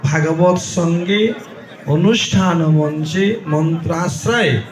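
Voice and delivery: soft, slow Sanskrit invocation of sacred rivers; priestly invocation. Acted. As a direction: call the holy waters in one by one, hushed. Priest invokes holy waters.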